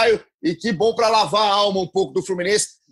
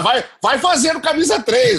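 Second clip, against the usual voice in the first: laughing; 6 semitones higher, 4 dB louder than usual. Real, not acted. Joking about third kit launches.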